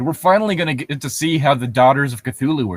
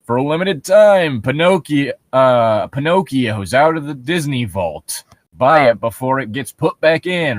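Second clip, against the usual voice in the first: mock commercial announcer. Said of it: "It's like".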